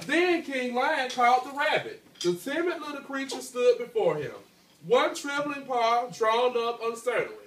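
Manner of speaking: clear, steady storytelling read; reading a story aloud to class. A narrator's reading. Teacher reading the tale to her class, storytelling voice.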